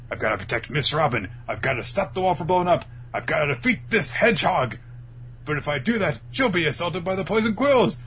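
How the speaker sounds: mock panic climbing high and loud; frantic dilemma. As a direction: work yourself up, item by item. Acting Bartolomeo's frantic dilemma.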